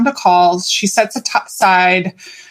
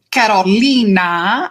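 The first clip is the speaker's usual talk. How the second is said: Carolina with a Spanish lilt, long "li"; Spanish accent; slower than usual. Shown as a demonstration. Host naming her client, Spanish accent. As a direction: say the name in a Spanish-speaking accent. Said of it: "I always say it in my Spanish-speaking accent".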